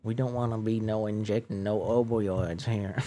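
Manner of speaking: lightly put-on Appalachian mountain man accent. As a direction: mimic the voices of Appalachia. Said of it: "Man, I could do that accent forever".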